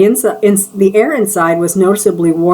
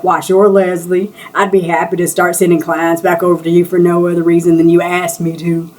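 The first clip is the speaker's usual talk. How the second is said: mocking southern accent. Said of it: "in that little southern accent he thinks is sexy".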